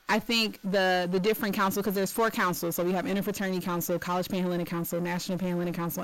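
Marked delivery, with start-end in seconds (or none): 2.8-5.0 listing councils at a quick clip; rapid-fire. Real, not acted. Student affairs director listing councils for host, rapid-fire. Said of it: "say that a little slower". 5.0-6.0 council name rattled off quickly; rapid-fire. Real, not acted. Director naming one of four councils, rapid-fire. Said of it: "say that a little slower".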